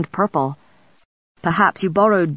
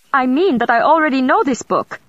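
much higher, louder, indignant splutter; outraged royal sputter; sputtering Emperor; 8 semitones higher, 3 dB louder than usual. Acted. Emperor sputters at Matthew in outrage, much higher and louder. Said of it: "Rudolph sputtered".

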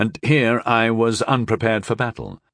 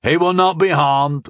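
gruff guard captain's assurance, pitched up; raised gruff voice; 5 semitones higher, 3 dB louder than usual. A narrator's reading. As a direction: call it out gruffly.

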